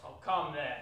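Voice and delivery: light, good-humoured protest; mildly merry reply; gay. Acted. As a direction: coax him cheerfully. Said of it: "returned the nephew gaily".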